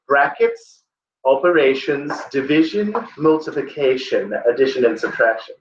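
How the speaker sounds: lightly imitated Cockney-style English accent. English tutor listing the order, lightly imitated Cockney accent. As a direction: list it like a Cockney tutor, half-attempted accent. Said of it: "it's called the Cockney accent or something".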